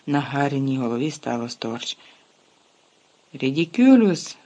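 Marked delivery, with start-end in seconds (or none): 3.3-4.4 exclaimed. Acted. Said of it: "вигукнув Шеймус".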